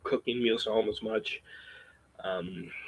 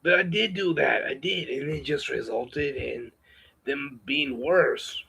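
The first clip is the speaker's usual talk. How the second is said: raised, strained put-on voice; put-on higher voice. Vlogger talking to viewers about women, in a strained put-on higher voice. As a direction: push the voice up higher than your own and hold it. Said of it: "I'm gonna have to break off this voice".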